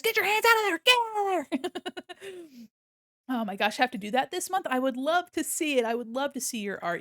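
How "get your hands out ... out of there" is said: high, loud mock shout that cracks into a cry; hammed-up shriek of protest, laughing after; mock yell. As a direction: yell at the pokers in play outrage. Chat pokes avatar's nose.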